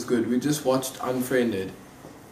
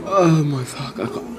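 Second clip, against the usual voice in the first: laughing in pain; 6 dB louder, slower than usual. Real, not acted.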